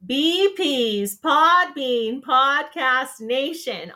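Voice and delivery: slow, each word spelled out; slow and careful. Shown as a demonstration. Host giving new listeners the group name, deliberately slow. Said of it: "I always have to say this so slow".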